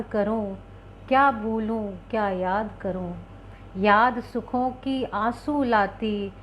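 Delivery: slow, measured Hindi poem reading; slow recitation of a wistful Hindi poem. Acted. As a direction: let each line of the poem linger, slowly.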